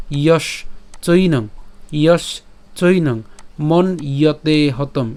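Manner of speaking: ইয়শ চৈনং slow with a break after ইয়শ; পাঠ ধীরে, ইয়শ আর চৈনং আলাদা; slow careful syllable split. Shown as a demonstration. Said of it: "কেমন উচ্চারণ".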